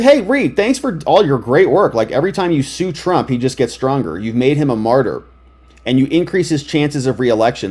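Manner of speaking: ordinary talk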